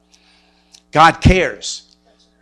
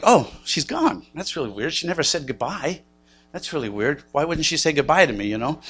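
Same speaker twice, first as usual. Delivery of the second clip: softer, puzzled thinking aloud; puzzled self-talk; 5 dB quieter than usual. Retold or imitated. Husband wondering aloud why his wife left without goodbye, puzzled and quiet.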